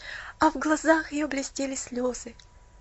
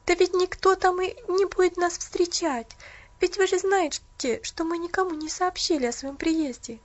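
a hint of an eager young girl, higher; higher, eager girlish reassurance; lightly voiced girl; 6 semitones higher than usual. Pollyanna pleading, higher.

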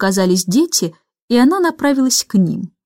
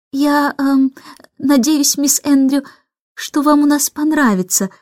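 polite; 4 semitones higher than usual. Acted. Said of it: "вежливо говорила миссис Бэнкс".

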